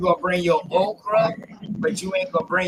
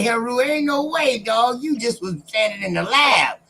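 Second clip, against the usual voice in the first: laughing shout; 4 semitones higher than usual. Real, not acted. Laughing at friend's background.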